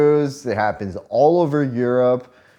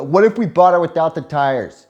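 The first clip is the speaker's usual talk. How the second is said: put-on a touch of a naive little kid; child's question; 4 semitones higher, 4 dB louder than usual. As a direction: ask it like an eager six-year-old. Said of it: "six years old, I go".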